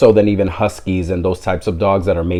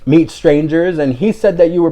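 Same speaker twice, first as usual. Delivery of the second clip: higher, mock scolding of a pet; imitating an owner scolding her dog, higher; 6 semitones higher than usual. Embarrassed owner scolds her dog, higher mock scolding. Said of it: "Talking to the dog like".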